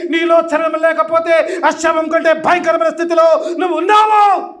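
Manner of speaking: full-force pulpit shout; fiery preaching. Acted. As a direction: preach it hard at the congregation.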